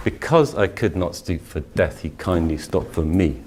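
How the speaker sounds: recited with a clear pause after "me"; pause marked. Shown as a demonstration. Teacher showing the pause in a Dickinson line. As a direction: hold the pause at the line end. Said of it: "note the pause as well".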